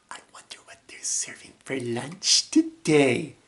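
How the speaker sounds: soft, quick musing; half-whispered cartoon wondering; character voice. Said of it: "doing the voices and the lines".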